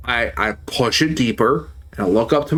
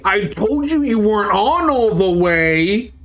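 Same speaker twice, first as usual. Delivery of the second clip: mild retold yell; 7 semitones higher than usual. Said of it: "just yells out loudly".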